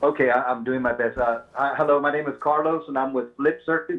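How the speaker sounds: faint phone voice, hard to hear; straining to be heard over a bad line; barely audible. Real, not acted. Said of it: "We can barely hear you".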